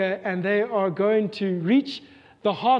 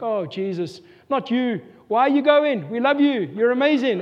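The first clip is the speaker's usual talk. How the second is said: pleading dismay; 3 semitones higher than usual. Retold or imitated. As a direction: plead with a departing member not to go. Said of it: "You're like".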